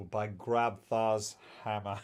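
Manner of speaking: slow, lightly hammed solemn oath; solemn movie quote. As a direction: intone it like a grave alien hero. Quoting Galaxy Quest line.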